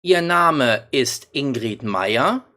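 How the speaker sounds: Ihr Name ist Ingrid Meyer asked, pitch rising on Meyer; slow question with a rise at the end; slow German question, voice climbing at the close; question tune. Shown as a demonstration. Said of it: "here at the end we have a question mark".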